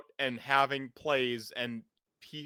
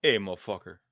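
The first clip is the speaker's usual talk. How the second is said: rough Chicago beast voice, a touch louder; gruff Chicago accent; 3 semitones lower, 4 dB louder, faster than usual. Acted. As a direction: growl it like a Chicago tough guy. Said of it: "modeled your beast after your own amazing Chicago accent, and I just made it gruffer".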